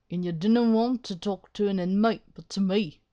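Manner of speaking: struggling Irish governor voice; attempted Irish accent. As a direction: put on a rough-and-ready Irish brogue. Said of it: "that's the best I could do".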